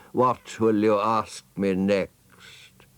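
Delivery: slow, breathy whisper full of scorn; scornful snake whisper. Acted. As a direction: sneer it slowly under the breath. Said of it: "in a voice of dreadful scorn".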